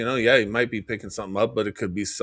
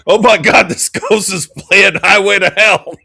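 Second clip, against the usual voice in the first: laughing; 10 semitones higher, 12 dB louder than usual. Real, not acted. Laughing at ghost playing rock.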